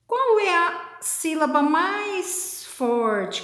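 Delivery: normal talking voice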